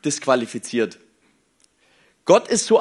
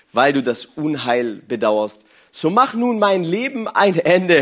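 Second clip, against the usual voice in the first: scripture reading; 3 semitones lower than usual. Acted. Reads the Bible passage aloud.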